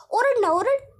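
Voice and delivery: high, goading taunt; taunting dare. Acted. Villain goading the trapped woman to scream, taunting. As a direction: push her mockingly to yell.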